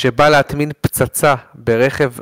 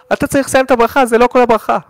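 mock correction; 9 semitones higher, faster than usual. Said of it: "ובא לי להגיד לו".

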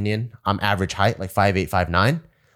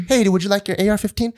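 mock redneck voice; 9 semitones higher, faster than usual. Mocking ignorant recruits.

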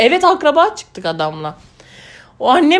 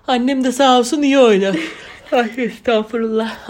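talking through a yawn; words stretched by a yawn. Real, not acted. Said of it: "Affedersiniz, esnedim".

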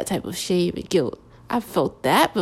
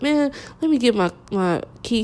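mildly exasperated retold grumble, pitched up at the start; retold upset; 4 semitones higher than usual. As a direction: imitate an upset man, lightly. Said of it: "he was so upset".

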